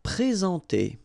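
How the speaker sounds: "Présenter" said the French way, pre-zahn-TAY; French word. Shown as a demonstration. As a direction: clear French "Présenter" with the nasal en. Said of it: "remember when we've got this accent".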